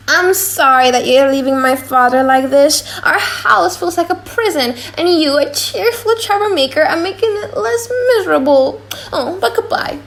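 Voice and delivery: put-on young woman's voice, sorrowful; young Jessica voice. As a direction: play the daughter, sorry to see him go.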